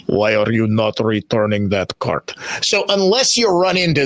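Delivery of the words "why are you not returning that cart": put-on low, heavy Russian accent as the cart cop; mock-stern Russian accent demanding the cart. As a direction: imitate a Russian enforcer's lower voice. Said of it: "he even speaks with a Russian accent".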